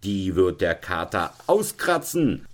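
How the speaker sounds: mild acted threat; calling out. Veronika threatening with the tomcat, mildly heated retort. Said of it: "rief Veronika".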